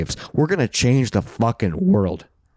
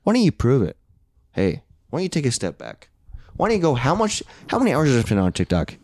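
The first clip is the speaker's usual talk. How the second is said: mock aggressive. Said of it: "I got very aggressive".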